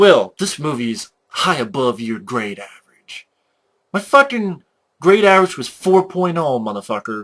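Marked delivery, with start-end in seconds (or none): 0.0-3.3 mock pretentious, snobby voice. Ranting about a movie's fans, the speaker mimics them: mocking a pretentious snob. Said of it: "these pretentious pricks who are like".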